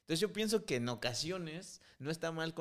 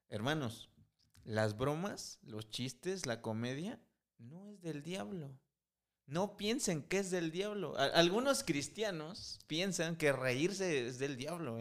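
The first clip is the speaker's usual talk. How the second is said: a mock-solemn preacher's address, slower; a playful put-on sermon to the brothers; mock serious; 3 semitones higher than usual. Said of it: "algo así como serio". (tono de predicador en broma, solemne fingido)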